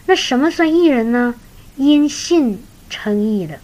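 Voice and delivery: ordinary delivery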